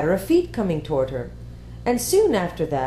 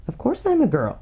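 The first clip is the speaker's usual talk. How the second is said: put-on girl character voice; 6 semitones higher than usual. A narrator's reading.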